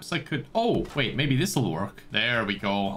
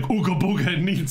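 caveman talk; 4 semitones higher than usual. Pretend. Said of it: "Shouldn't be going around like".

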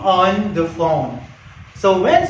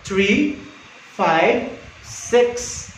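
"Three five six" as separate, evenly spaced digits; paused phone number; much slower than usual. Shown as a demonstration. Operator giving a number to write down, "Three five six" spaced out. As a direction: dictate "Three five six" with a gap after "Three".

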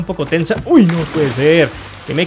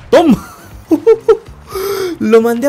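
triumphant cry; 9 semitones higher than usual. Real, not acted. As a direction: gloat on the hit. Triumphant hit and laugh.

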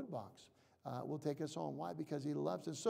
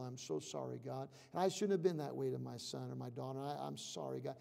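soft, lower, quick at times, contrite; hushed confession; 5 semitones lower, 5 dB quieter than usual. Shown as a demonstration. Preacher showing how to confess sins one by one, hushed. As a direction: confess each wrong quietly to God. Specific confession prayer demo.

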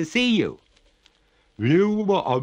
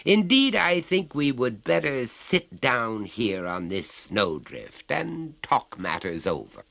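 higher-pitched polite refusal; courteous; 8 semitones higher, 4 dB louder than usual. A narrator's reading. Master declines to hurry, courteous. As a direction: reason with her like an unhurried gentleman. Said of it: "returned the master courteously".

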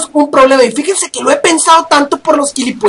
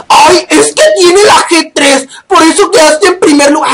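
mocking whiny commenter; 2 semitones higher than usual. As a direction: drag it out like a sneering commenter. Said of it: "cada que pongo un pinche score". (imitación burlona de un criticón)

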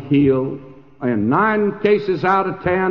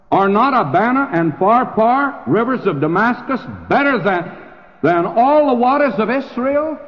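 proud indignant protest; 7 semitones higher than usual. Acted. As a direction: defend Damascus with wounded pride. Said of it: "listen to Naaman. He can react also".

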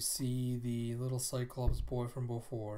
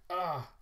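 acted cry of pain; 5 semitones higher than usual. Stabbed character cries out.

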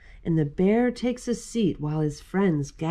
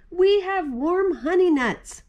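high critter voice; 10 semitones higher, 3 dB louder than usual. Acted. Gopher and Mole offer nuts.

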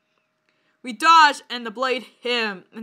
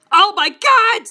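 high, loud exclamation; dramatic raised-pitch yell; screamed; 7 semitones higher, 8 dB louder, slower than usual. A narrator's reading. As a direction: cry out in acted shock. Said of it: "I screamed".

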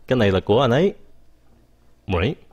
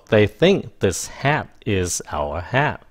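slow, wordy version; slower than usual. Shown as a demonstration. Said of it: "Mình có thể nói rằng là".

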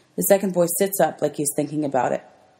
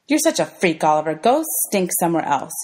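sneering insult. Acted. Girl insults boy.

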